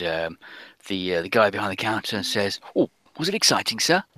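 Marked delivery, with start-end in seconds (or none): 2.8-4.0 put-on quick, higher-pitched Spanish accent. Man behind the counter greets the customers, in a Spanish accent. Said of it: "a Spanish accent".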